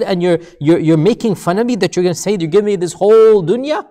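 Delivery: retold exasperated questioning; irritated retelling. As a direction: protest in mounting disbelief, as if being mocked. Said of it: "the man becomes irritated and he says".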